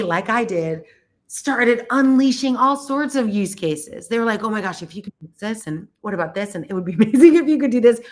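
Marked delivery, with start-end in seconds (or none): 4.4-8.0 excited curators. Retold or imitated. Curators excitedly listing ideas.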